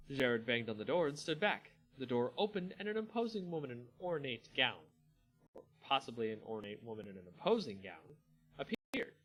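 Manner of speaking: steady storyteller reading a fantasy tale; story narration. A narrator's reading. Narrator reading a Magic story to viewers, measured storytelling. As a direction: read it like an audiobook narrator.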